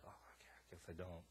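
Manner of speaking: soft, low, deflated backing down; feeling small. Retold or imitated. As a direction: shrink back and concede quietly. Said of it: "I felt kinda small right there".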